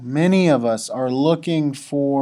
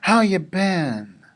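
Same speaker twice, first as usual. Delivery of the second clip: put-on bright, louder, higher happy hello to an old friend; excited friend greeting; 5 semitones higher, 4 dB louder than usual. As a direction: greet a buddy you haven't seen in ages. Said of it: "This is the".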